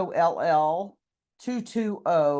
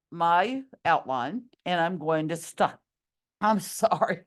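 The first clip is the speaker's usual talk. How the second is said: losing her voice, hoarse and strained; hoarse, worn-out teacher voice. Real, not acted. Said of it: "losing my voice again".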